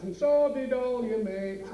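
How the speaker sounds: a wife bellowing out of a window; bellowed from the bedroom window; slow shouted wife retort. Retold or imitated. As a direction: shout it back slowly from the window. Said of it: "she shouts".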